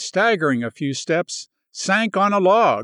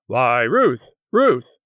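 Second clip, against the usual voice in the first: a startled man calling her name; exclaiming; 3 semitones lower, slower than usual. Acted. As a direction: call out to her in alarm. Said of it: "he exclaimed".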